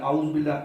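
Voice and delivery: quick اعوذ باللہ with اعوذ squashed to "auz"; wrong merging. Shown as a demonstration. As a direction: run الف straight into واو in اعوذ. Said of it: "واو کے ساتھ ملا رہے". (اعوذ باللہ، "اوز" ملا کر)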